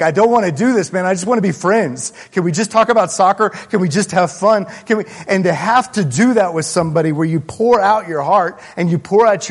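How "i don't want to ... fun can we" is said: higher, louder, pleading to dodge a hard talk; a pastor voicing his reluctant younger self, pleading. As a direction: beg to just have fun instead. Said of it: "you're like".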